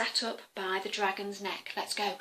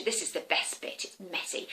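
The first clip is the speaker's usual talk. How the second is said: whispered aside; 5 semitones lower, 5 dB quieter than usual. Acted. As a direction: whisper it low. Confiding aside to children.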